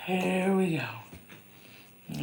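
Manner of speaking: "Here we go" stretched very slow, rising at the end; long drawn-out rising "Here we go"; drawn-out sing-song. Real, not acted. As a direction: sing it out slowly like a little tune.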